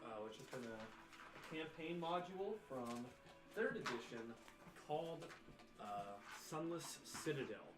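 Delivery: dramatic show-host intro; announcer. Acted. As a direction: build up the finale. Host opens the season finale.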